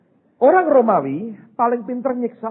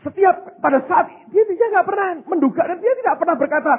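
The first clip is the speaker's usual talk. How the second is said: ordinary delivery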